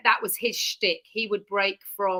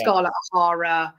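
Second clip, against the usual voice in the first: Scarlett O'Hara voice; 2 semitones lower, 5 dB louder than usual. Shown as a demonstration. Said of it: "I take on different voices of movies".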